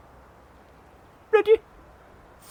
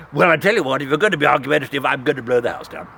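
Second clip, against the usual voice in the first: wolf voice; 11 semitones lower, much faster than usual. Acted. Wolf threatening first pig.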